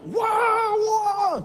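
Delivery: high, loud cry of alarm; retold scream of the congregation; crowd shouting. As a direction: yell out like the youths screaming. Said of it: "langsung teriak".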